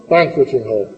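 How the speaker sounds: BANqueting, stressed on BAN and falling away; first-syllable stress. Shown as a demonstration. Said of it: "vamos a remarcar la primera sílaba".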